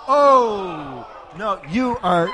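high, loud showy exclaim; excited shout. Acted. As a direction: burst out like a thrilled host. Host exclaims at the prize.

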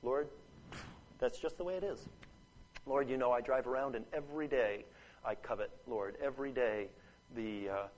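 soft, low, hushed prayer voice; closing prayer. Acted. Preacher leads the congregation in prayer, hushed and humble. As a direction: speak quietly and humbly to God.

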